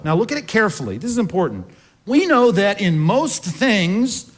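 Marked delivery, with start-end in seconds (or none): 2.1-4.3 slow, deliberate reading leaning on most; "most" drawn out and weighted as the key word; stress on most. Shown as a demonstration. Preacher reading the new version, stressing most. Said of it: "underline the word most there".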